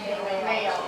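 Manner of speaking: speaking up so the back can hear. Real, not acted. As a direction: raise the voice for the room. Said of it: "Can you talk louder, please?".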